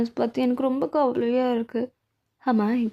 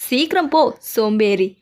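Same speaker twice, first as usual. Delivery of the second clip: scolding bark; 2 semitones lower, 4 dB louder than usual. Acted. சிறுவனை அதட்டுதல்.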